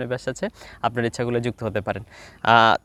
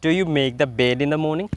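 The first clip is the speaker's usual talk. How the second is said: slow drill questions; much slower than usual. Shown as a demonstration. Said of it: "আপনি একা একা প্রশ্ন করতে হবে".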